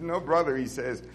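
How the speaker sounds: quiet, humble sincerity; softly sincere brother, truly humble. Retold or imitated. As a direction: say it meekly, meaning every word. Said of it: "he said with sincerity".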